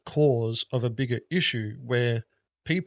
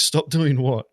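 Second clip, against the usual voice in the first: louder, disbelieving stop doing what; incredulous repeat; 6 dB louder, slower than usual. Retold or imitated. Warned player asks support in loud disbelief. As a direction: push it out, baffled and indignant.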